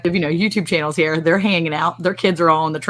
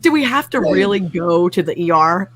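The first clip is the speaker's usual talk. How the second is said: pitched-up whiny protest; high whiny pleading; 4 semitones higher than usual. Retold or imitated. Mom whining to husband about skipping the ER, high and pleading. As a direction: whine your way out of the ER trip.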